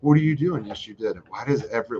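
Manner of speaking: ordinary talk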